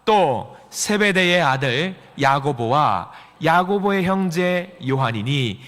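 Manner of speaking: slow, measured recitation; deliberate, drawn-out Bible verse; scripture reading. Acted. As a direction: lead a congregation reading in unison. Leads congregation reading scripture.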